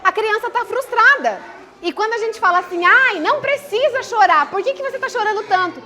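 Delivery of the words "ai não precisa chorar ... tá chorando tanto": dismissive parent. Shown as a demonstration. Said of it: "É como se você falasse assim".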